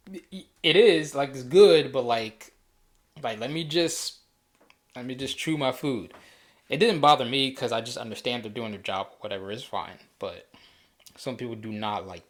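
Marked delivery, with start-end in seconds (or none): 0.1-6.1 louder and higher, flustered and stammering; exasperated mouth-full reply. Retold or imitated. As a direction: fluster it out as if still chewing. Retorting to waiter while eating.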